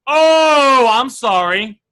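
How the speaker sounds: big loud "Oh" then a quick "I'm sorry"; catching a mistake. Shown as a demonstration. Teacher demos a realtor catching a mistake, drawn-out oh. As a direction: sound like you just caught your own mistake. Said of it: "Why do you guys say it like this?".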